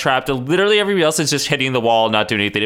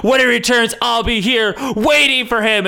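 mock-dramatic vow; 5 semitones higher than usual. Warren vowing to wait for his enemy, mock-dramatic. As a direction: declaim it with hammed-up resolve.

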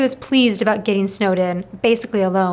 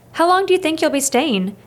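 higher call toward the stairs; called after him; 6 semitones higher than usual. A narrator's reading. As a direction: call after a guest who's leaving. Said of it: "Missus Pine called after him".

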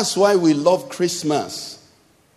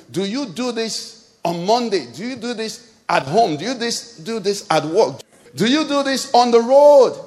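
building challenge; 3 semitones higher than usual. Real, not acted. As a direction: press each question, then ring out on the last. Repeated challenge building to a climax.

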